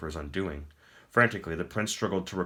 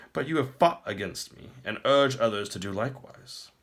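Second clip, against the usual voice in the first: higher, louder and grand, a pleased tyrant; smug emperor; 5 semitones higher, 4 dB louder than usual. Acted. The Emperor taunts the captive prince, smug and grand. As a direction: speak down to a beaten foe.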